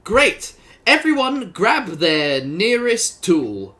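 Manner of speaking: hearty group leader. Acted. Improv scene, leading the gardeners.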